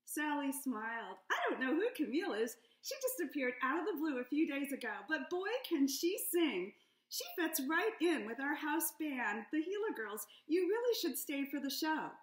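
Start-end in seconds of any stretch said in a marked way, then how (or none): 1.3-12.1 higher, louder gushing waitress; chatty waitress praising the singer; a hint of a gushing salamander; Sally's voice. Sally talks about Camille.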